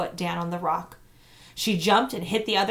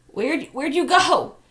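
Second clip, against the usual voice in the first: higher, louder, slow call; 8 semitones higher, 7 dB louder, slower than usual. A narrator's reading. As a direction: call out blindly for her. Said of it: "he called".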